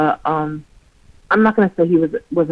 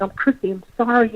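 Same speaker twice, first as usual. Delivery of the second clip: retold tearful apology; 7 semitones higher than usual. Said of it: "I started crying for her".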